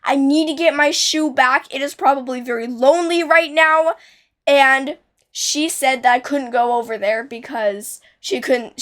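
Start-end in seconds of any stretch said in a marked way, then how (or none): 0.0-3.9 tearful begging. Retold or imitated. Child begging mom to fetch her lost shoe, mild tearful plea. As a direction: beg like a crying little kid, lightly played. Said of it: "and I was crying".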